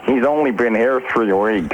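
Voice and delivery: American accent impression. Shown as a demonstration. British DJ translating into American for confused hosts, American accent. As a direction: repeat it in a mock American accent. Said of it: "do your American impressions".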